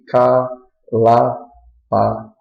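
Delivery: "ca", "la", "pa" each said alone with a pause between; separate syllables. Shown as a demonstration. Teacher giving monosyllable examples, detached "ca", "la", "pa". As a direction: give "ca", "la", "pa" as single detached beats. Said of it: "é a formação de uma sílaba só".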